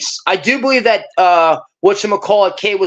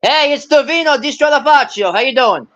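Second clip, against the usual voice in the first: Tony Soprano sound; 7 semitones higher than usual. Real, not acted. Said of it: "You sound like Tony".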